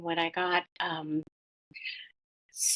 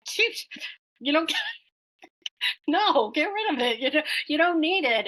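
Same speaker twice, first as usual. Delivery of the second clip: reassuring spirit guide; 8 semitones higher than usual. Retold or imitated. Spirit guide's words voiced in story.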